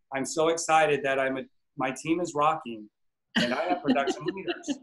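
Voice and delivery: low, soft, limp affirmation; flat half-hearted affirmation. Shown as a demonstration. Coach shows the wrong way to affirm, limp and soft. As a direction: mumble it like you don't believe it. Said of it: "that's not how you do an affirmation".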